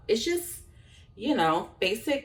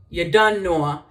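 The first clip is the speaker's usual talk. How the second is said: Jamaican patois said at natural speed, a bit louder; Jamaican patois phrase; 3 semitones lower, 4 dB louder than usual. Shown as a demonstration. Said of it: "if I say".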